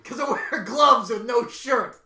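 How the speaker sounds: loud, slow wrestler's brag; drawn-out, hammed-up boast; Seth Rollins. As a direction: proclaim it like a proud wrestling star. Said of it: "Seth Rollins is coming".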